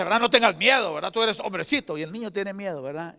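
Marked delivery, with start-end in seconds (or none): 0.2-2.0 father's firm reassurance. Retold or imitated. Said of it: "El papá dice".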